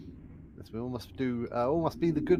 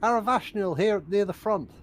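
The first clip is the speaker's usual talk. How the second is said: shouting back; 5 semitones higher than usual. Acted. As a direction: call out boldly to Horgus. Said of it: "like, shouting back".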